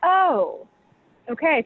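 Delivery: a mock high "oh" of realization; dawning surprise. Tasters finally get the palate, pleased surprise. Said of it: "people are like".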